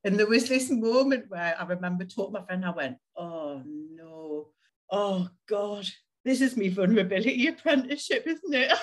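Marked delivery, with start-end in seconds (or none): 3.2-8.7 mock-horrified, rising into a laugh; dismayed laughing realisation. Telling her friend she must be vulnerable, laughing dismay. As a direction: groan then laugh at yourself.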